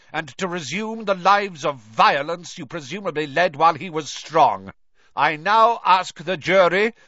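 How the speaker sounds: loud high bellow. A narrator's reading. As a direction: bellow the charge across the court. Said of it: "bellowed Mister Crouch".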